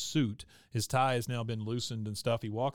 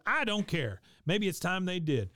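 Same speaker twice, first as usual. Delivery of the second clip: higher, mock indignant; defiant outburst; 7 semitones higher than usual. Bill answering Peggy's hushing, mock defiant and higher. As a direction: toss it off as a pitched-up mock protest.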